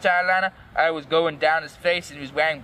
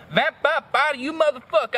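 high, strained-up mock yell; 8 semitones higher than usual. A narrator's reading. Girl bursts into Vampire's classroom, yelling at him. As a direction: yell it angrily in a raised pitch. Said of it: "I yelled".

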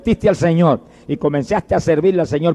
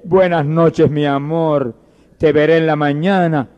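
quoted tender goodnight; 2 semitones lower, slower than usual. Acted. Son quotes mother's tender goodnight.

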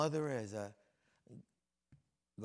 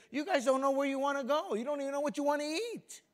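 much higher, louder exasperated shout; 11 semitones higher, 7 dB louder than usual. Retold or imitated. Preacher retells scolding his family, shouting higher and louder. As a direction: throw up your hands at them. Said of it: "And I said".

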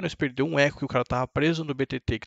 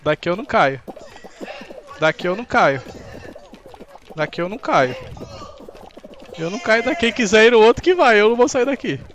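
defiant shouting; 7 semitones higher, 7 dB louder than usual. Real, not acted. Streamer defies game, keeps repeating.

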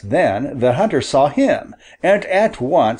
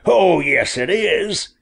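a hint of a pushy hunter, faster at the end; lightly voiced hunter; 4 semitones higher than usual. A narrator's reading. Hunter demanding the boy hand over his bird, mildly voiced. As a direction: claim the bird with easy confidence.

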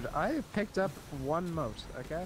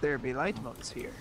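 pirate voice. Pretend. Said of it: "I just wanted to say it in a pirate voice".

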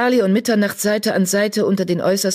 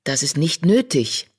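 friendly. Acted. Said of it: "mit freundlicher Stimme".

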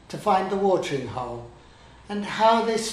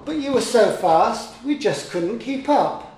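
little elephant explaining; 6 semitones higher than usual. A narrator's reading.

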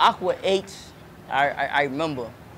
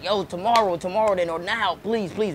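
put-on higher-pitched pleading kid, tomorrow then please; begging kid; 4 semitones higher than usual. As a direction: beg your mom to buy the shoes now. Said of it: "begging her, begging her".

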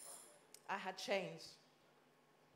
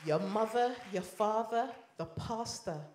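louder, each word punched out; preaching loud; 3 semitones higher, 6 dB louder than usual. Real, not acted. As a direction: hammer the list home. Preacher driving point home.

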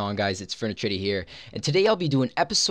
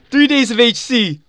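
shrieking jackpot winner; 8 semitones higher, 8 dB louder than usual. Real, not acted. Announces jackpot prize.

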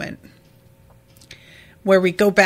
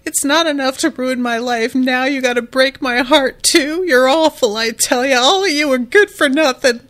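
mock sobbing scold; 4 semitones higher than usual. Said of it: "she begins sobbing, crying".

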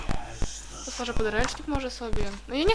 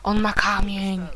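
ordinary talk, nothing marked

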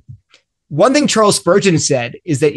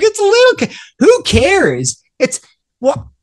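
mock careless shrug. Mocking careless sinner.

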